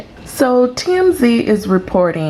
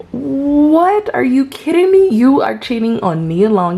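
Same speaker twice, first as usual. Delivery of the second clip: shocked disbelief; 7 semitones higher than usual. Retold or imitated. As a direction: play the public's jaw-drop at the news. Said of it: "everybody was like".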